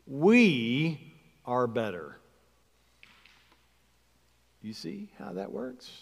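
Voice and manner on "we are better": "We" drawn out and lifted, the rest dropping away; stress on WE. Shown as a demonstration. Preacher showing the smug conclusion, stress on "We". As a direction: lean on "We", let "are better" fall. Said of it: "And we finally conclude".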